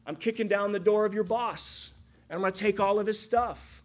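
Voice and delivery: a king announcing he's taking over; bold conquering king. Acted. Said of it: "And the answer is".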